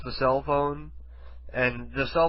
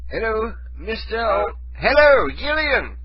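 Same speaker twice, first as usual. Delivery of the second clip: high British calling-out, getting louder; fake British accent; 8 semitones higher, 4 dB louder, slower than usual. Prank caller trying to rouse the person called, fake British accent. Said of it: "with a British accent".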